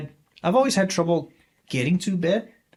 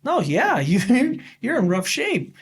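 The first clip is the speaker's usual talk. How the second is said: high, loud with a laugh through it; chuckling doctor breaking it lightly; 9 semitones higher, 4 dB louder, slower than usual. Retold or imitated. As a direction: laugh off the bad news. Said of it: "And he's like".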